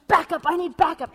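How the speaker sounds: high, loud urgent radio call; mock spy calling backup. Husband hamming up a spy calling for support. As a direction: beg for reinforcements like a movie agent. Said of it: "He's like".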